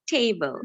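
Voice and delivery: "table" with a gliding "ay"; diphthong habit. Shown as a demonstration. Student showing her own way to teacher, "table" with a glide. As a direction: say "table" as "tay-bul". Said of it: "used to tell this like".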